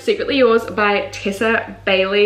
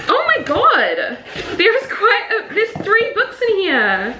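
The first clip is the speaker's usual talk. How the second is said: high, slow gush through laughter; laughing delight; 10 semitones higher, slower than usual. Real, not acted. Finding three books in the box, laughing with delight. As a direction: laugh with disbelieving joy.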